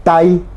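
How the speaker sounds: "tai" with the A stressed, clear oral vowel; "tai" as one beat led by a strong A. Shown as a demonstration. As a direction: lean on the A of "tai", short I after it. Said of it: "el acento le pongo en la A".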